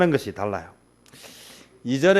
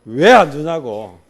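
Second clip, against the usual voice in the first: demanding; 5 dB louder, slower than usual. Retold or imitated. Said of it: "독촉합니다".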